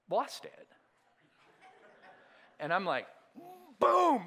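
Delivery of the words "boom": loud retold door slam noise; mock slam. Preacher reenacting slamming the broken screen door, loud burst. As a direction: bang it out with a burst.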